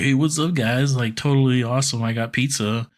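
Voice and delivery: a hint of upbeat surfer dude; Michelangelo shtick. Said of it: "Michelangelo shtick".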